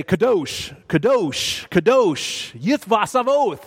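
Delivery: solemn liturgical declaration; angelic proclamation. Acted. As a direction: proclaim it with weight, lifting at the end. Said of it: "almost as if to say".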